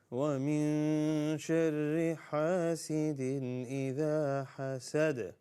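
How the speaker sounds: slow, measured tajweed recitation on a near-level tone; Quran recitation. Shown as a demonstration. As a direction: recite it slowly with long held vowels. Recites verse for learners.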